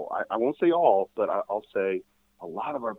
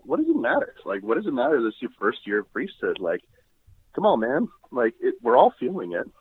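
challenging confessor. Retold or imitated. Brother priest challenging a first-year priest, retold with exasperation. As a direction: push back at him in a lively retold voice. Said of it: "I was challenged by a confessor".

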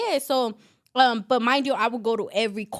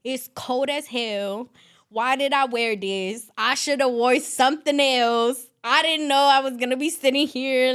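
retold griping, hitting it louder; exasperated complaint; 3 semitones higher, 4 dB louder than usual. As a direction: replay a fed-up inner rant. Retells griping thoughts in holding cell.

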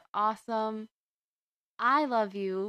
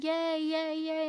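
put-on kids cheering; 8 semitones higher, slower than usual. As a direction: chant it like excited little boys. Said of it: "They were jump up and down going".

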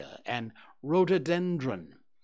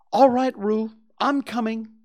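loud, higher shout across the stream; calling out; 10 semitones higher, 9 dB louder than usual. A narrator's reading. Christopher Robin shouts to Roo in the water, loud. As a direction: call out to reassure from afar. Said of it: "called Christopher Robin".

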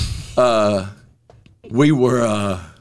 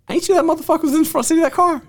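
retold confrontation; faster than usual.

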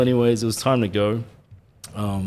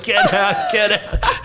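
mock screaming; 8 semitones higher, slower than usual. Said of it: "And they're screaming at him".

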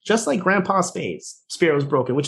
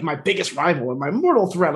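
lightly imitated promo declaration; a hint of a melodramatic villain's boast; wrestling promo. Husband talking to his wife like a promo, mock-grave. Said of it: "in a promo way".

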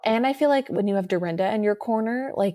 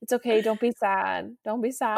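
self-soothing. Retold or imitated. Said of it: "I'm like".

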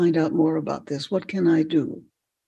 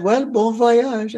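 put-on slow, higher French-accented farewell; 5 semitones higher, 3 dB louder, slower than usual. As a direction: wish well like an old Frenchman. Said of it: "in a French accent".

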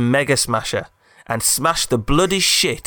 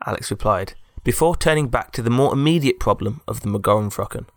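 ordinary delivery, nothing marked

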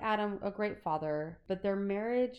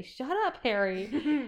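shouting; 6 semitones higher, 5 dB louder, slower than usual. Retold or imitated. Both shout at Harry.

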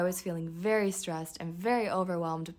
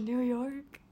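a touch of tearfulness, slightly high; mock tearful reply; 5 semitones higher than usual. Driver answering the cop, mock tearful. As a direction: imitate answering an officer near tears. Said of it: "but I was crying".

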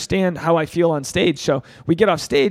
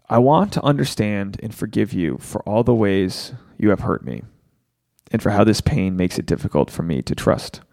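slow, low, deliberate read of a forgiveness vow; slow recitation; 6 semitones lower than usual. Shown as a demonstration. Host guiding viewers through a forgiveness vow, slow and low. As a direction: lead the listeners word by word through the vow. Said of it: "So say this with me".

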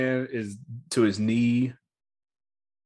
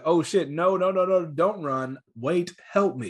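higher-pitched mock panic; panicked pleading; 5 semitones higher than usual. Girlfriend begging the dog not to run, mock panicked pleading. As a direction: plead urgently, acted out in a retelling.

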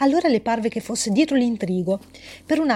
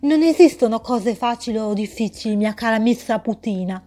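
condescending riddler. Acted. Voice scolds miss Saputina.

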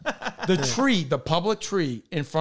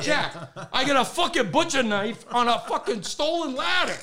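retold exasperated protest; 6 semitones higher than usual. Retelling his protest from the ladder.

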